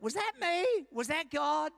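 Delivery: high-pitched questioning of one's own thoughts; acted-out self-doubt; puzzled wondering. Voices a listener's puzzled inner question.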